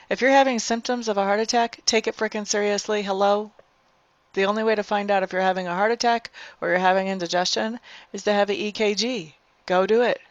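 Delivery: exasperated, insistent scolding; soapbox rant. Real, not acted. Telling viewers with heart attack symptoms to act, ranting. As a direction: lay down the law impatiently. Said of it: "I'm totally on a soapbox, ranting and raving".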